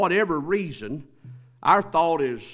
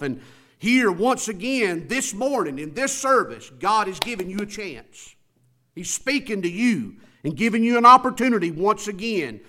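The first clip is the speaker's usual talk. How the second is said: raised, urgent pulpit voice; emphatic preaching; 8 semitones higher, 9 dB louder than usual. Real, not acted. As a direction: press the appeal home like a preacher. Preaches with rising force.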